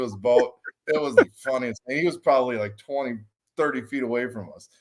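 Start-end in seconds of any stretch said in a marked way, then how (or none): none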